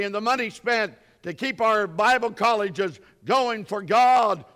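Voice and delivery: hammering rhetorical questions; preaching at full force. Acted. Preacher to congregation, building rhetorical why questions. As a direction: drive each Why home harder.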